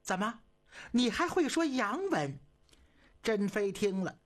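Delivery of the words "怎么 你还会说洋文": higher, startled question; taken aback. A narrator's reading. Emperor surprised his consort speaks English, startled. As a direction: sound caught off guard. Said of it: "皇上不由一愣".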